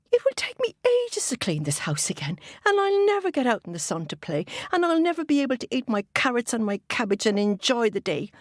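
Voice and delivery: high-pitched complaining wail, sinking gradually; lamenting rabbit. Acted. Missus Rabbit facing endless cleaning, high lament. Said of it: "she said".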